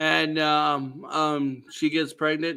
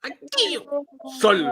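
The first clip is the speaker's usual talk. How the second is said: lowest voice; 9 semitones higher than usual. Retold or imitated. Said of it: "That's my lowest voice ever".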